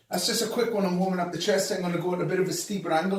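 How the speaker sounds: winded between reps; out of breath. Real, not acted. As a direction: talk while catching your breath. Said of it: "Let me just pause and catch my breath".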